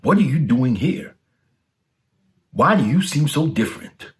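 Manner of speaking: a robber amazed at the change in him; surprised robber. Acted. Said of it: "he asked".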